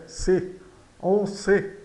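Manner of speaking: C and ce both as "sê", en nasal; closed E. Shown as a demonstration. Teacher back to the correct sound, en ce with closed E. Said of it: "o E fechado".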